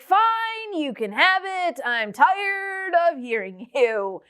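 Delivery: a high "Fine," then slow, worn-out giving in; teacher worn down by a whining child, exasperated; exasperated parent. Retold or imitated. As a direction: sigh it out like a fed-up parent. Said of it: "parents and teachers ... will be like".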